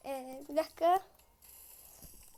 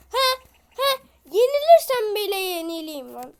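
boastful shouting; 8 dB louder than usual. Real, not acted. Prahlt laut im Kampf.

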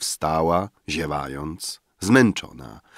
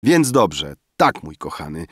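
put-on drunken boasting; 2 semitones lower than usual. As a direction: play a drunk young man gloating over his fortune. Drunk Emil replying. (pijacki, chełpliwy głos)

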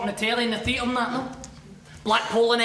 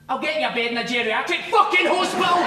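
a louder, higher retold outburst; triumphant shout; 4 semitones higher, 4 dB louder than usual. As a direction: let the insult finally burst out. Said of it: "I've been dying to say that for ages".

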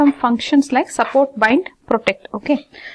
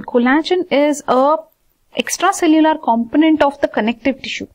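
higher, deliberate recital of a technical term; technical definition; 4 semitones higher than usual. Shown as a demonstration. Teacher mock-reciting an exam answer, technical definition. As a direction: recite it as a formal textbook definition, pitched up. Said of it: "If you have to say it like that".

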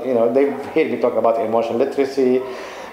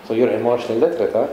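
teasing son; faster than usual. Retold or imitated. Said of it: "coming up and saying".

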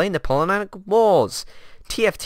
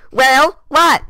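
surprised; 9 semitones higher, 8 dB louder than usual. Acted. Reacts to the laugh.

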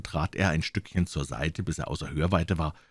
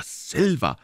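doctor calling to the cook, pitch raised; 10 semitones higher than usual. A narrator's reading. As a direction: hail him by name, higher. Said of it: "rief er".

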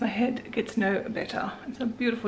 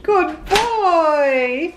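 squeaky dog praise; 7 semitones higher, 9 dB louder than usual. Real, not acted.

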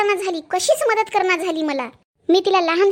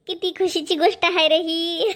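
happy laughter. Acted. Mother hears she'll be grandmother.

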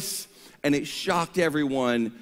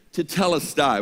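said together; 4 dB louder than usual. Shown as a demonstration. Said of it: "Let's all say it together".

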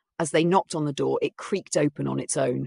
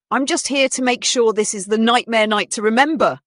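cool musician voice; 7 semitones higher, 8 dB louder than usual. Acted. Character voiced in story.

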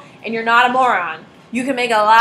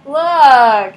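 put-on louder insistent kid call; demanding toddler; 3 semitones higher, 9 dB louder than usual. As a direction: demand their attention like a toddler.

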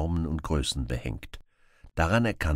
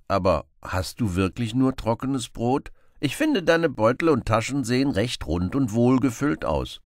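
lively Robin Hood; 6 semitones higher, 5 dB louder than usual. Acted. Robin voiced.

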